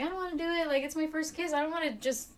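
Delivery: lightly voiced pleading kid; imitating reluctant child. Retelling a young dancer's refusal, reluctant.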